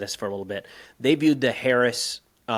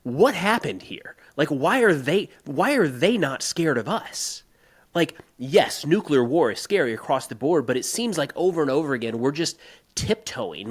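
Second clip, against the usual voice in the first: higher, emphatic rhetorical questions, pitch spiking on why; retold rant; 3 semitones higher than usual. Host retelling his Twitter rant, in a worked-up voice. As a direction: rant at the timid policy, pushing the questions up high. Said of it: "I was kind of ranting about".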